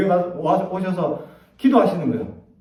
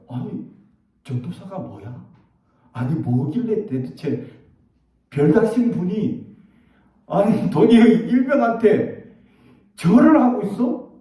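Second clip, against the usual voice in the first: astonished soldiers; 3 semitones higher than usual. Retold or imitated. Soldiers astonished at the general bowing.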